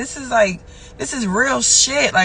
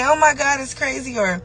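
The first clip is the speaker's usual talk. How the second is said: habitual exclamation; 4 semitones higher, slower than usual. Retold or imitated. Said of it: "I always say".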